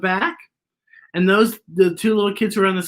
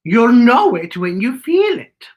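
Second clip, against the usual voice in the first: slow, gently voiced wise woman; Beatrice's voice; 3 semitones higher, 4 dB louder, slower than usual. A narrator's reading. Beatrice telling Z what love is, gently. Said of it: "She said".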